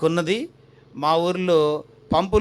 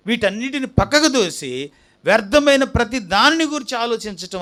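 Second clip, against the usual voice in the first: insistent, slightly raised sermon voice; emphatic preaching; 4 semitones higher than usual. Real, not acted. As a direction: drive the repeated points home. (నొక్కి చెబుతూ ప్రసంగం)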